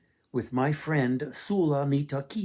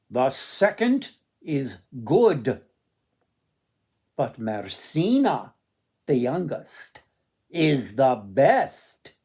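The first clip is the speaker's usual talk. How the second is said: slow, loud, measured voice of the sun; slow solemn sun; 5 dB louder, slower than usual. Acted. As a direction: deliver the verdict slowly and grandly. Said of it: "the sun replied".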